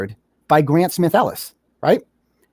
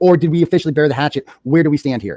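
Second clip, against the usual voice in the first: plain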